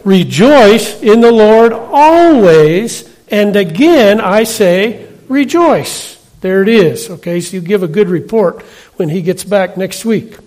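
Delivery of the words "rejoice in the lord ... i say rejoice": slow unison recitation; congregation reciting together. Shown as a demonstration. Preacher leading congregation in slow unison. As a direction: lead the church in a slow chant. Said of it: "All together".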